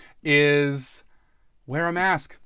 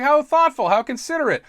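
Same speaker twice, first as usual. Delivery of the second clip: higher, lightly mocking praise; mock impressed; 9 semitones higher than usual. The interviewers praising the masked applicant, mildly gushing. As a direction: imitate interviewers, a bit gushing. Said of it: "they were like".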